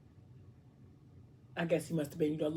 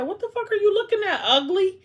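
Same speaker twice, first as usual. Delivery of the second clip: sassy snap; 7 dB louder than usual. Acted. Blue snapping at staring Messiah.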